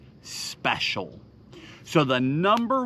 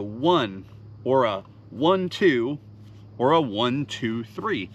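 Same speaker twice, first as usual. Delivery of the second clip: counting the rips; 3 semitones lower than usual. Shown as a demonstration. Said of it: "I use a mix of".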